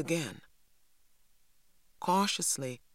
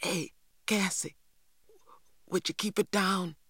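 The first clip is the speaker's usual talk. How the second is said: higher-pitched urgent hushing; mildly whispered plea, still voiced; stage whisper; 5 semitones higher than usual. A narrator's reading. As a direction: shush someone without truly whispering. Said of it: "whispered T J".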